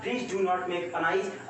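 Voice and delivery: each word drawn out for the class; slow reading aloud. Shown as a demonstration. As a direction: read it slowly to the students. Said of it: "यहाँ लिखा हुआ है".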